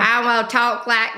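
Briton's attempt at American country accent; playful country-accent impression; imitated country accent. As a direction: put on a mock country accent. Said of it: "they all sound country".

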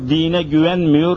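ordinary talk, nothing marked

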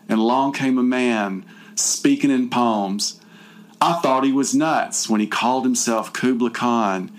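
a lightly dramatic poem recital; dramatic reading. Pretend. Reading her captor's poem aloud, mock dramatic. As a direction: recite the poem with mock grandeur, barely holding back laughs. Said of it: "I'm gonna do my dramatic reading".

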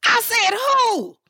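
retold yelp of surprise; startled. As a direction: blurt it out high, in disbelief. Retold startled reply in anecdote.

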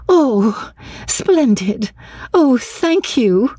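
lightly thrilled thanks, drawn out; lightly voiced delight. A narrator's reading. Lucy's mother agrees to Greece, mild delight.

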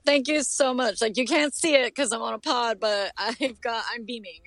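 beaming, happy and bright; smiling voice. Real, not acted. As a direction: say it grinning with delight. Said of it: "I'm smiling ear to ear right now".

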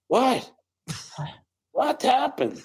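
exaggerated high confused accent impression; bad Asian accent. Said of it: "He's doing a bad Asian impression or something".

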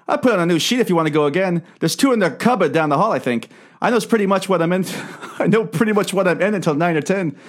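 put-on patchy mixed rural accent; mixed European accent. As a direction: mash every European dialect together. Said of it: "a combination of every European dialect".

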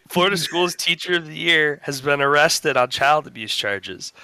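steady newscaster delivery; deadpan news read; news anchor read. Acted. Reads a mock news story.

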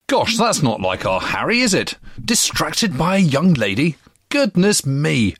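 tut-tut in fun, drawing out the goodness me; playful teasing. Real, not acted. Host teases about Harry's crush.

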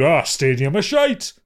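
Geordie jeer. Retold or imitated. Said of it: "everyone in Newcastle went".

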